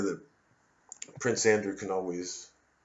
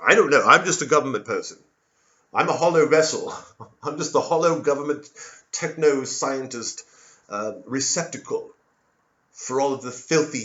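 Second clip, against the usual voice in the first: louder, fast flat official voice; government person; 5 dB louder than usual. Acted. Government person insisting he's a hollow vessel, loud and quick. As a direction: tracer deflecting blame, loud and fast.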